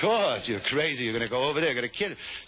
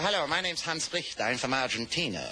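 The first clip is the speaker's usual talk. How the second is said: put-on German accent; 2 semitones higher than usual. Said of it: "He said".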